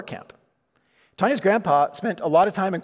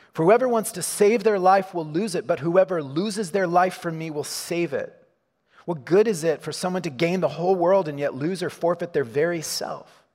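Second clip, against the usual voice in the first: scripture reading; 2 semitones higher than usual. Acted. Pastor reads scripture verse.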